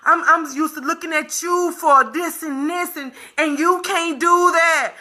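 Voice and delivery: a hint of a flustered friend making excuses; lightly voiced fretful friend; mock friend excuse. Mocking friends who say they can't face her. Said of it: "they'll tell you what?".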